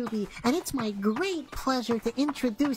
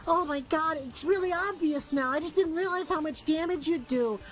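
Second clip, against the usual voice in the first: a small town resident, lightly voiced, grieving and accusing; hammed-up distraught little town voice; little cutie townsperson; 2 semitones higher than usual. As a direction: play the last tiny cutie mourning her town. Tiny town character addresses giant player.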